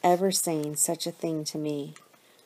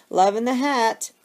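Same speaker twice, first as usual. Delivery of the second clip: higher, louder call from another room; piping up; 6 semitones higher, 7 dB louder than usual. A narrator's reading. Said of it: "pipes up from the family room".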